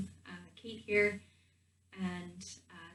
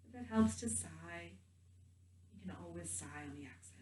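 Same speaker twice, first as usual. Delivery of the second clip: gentle guided meditation voice with long pauses. Real, not acted. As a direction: guide them calmly into the body, leaving space between phrases.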